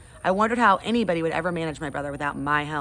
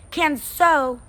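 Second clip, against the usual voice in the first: put-on high, loud squeal of a toddler; demanding toddler; 10 semitones higher, 7 dB louder than usual. Toddler Fudge demanding his turn, high squeal. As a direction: claim it like a little brat.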